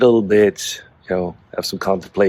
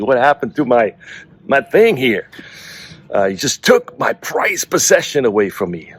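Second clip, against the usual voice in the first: upset cat voice; 5 semitones higher than usual. Pretend. The cat protesting to its owner about the mouse thrown outside, in a mock-offended voice. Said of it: "the cat was not happy".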